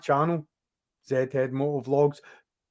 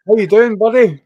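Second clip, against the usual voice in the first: excited greeting; 8 semitones higher, 13 dB louder, faster than usual. Real, not acted. Greeting first guest loudly.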